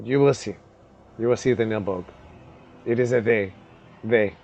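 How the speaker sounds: hushed goblin. Acted. Goblin mysterious about Nilbog.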